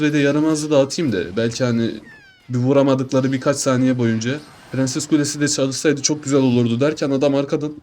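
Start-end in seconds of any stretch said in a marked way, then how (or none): 4.7-7.7 words through a small burp; talking while burping. Real, not acted. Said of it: "ufak bir geğirdim be". (geğirerek konuşma)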